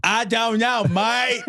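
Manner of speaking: put-on second go at a lame Australian accent; bad Australian accent. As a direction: try the Aussie line again, badly. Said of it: "Now you just sound like a retarded Australian".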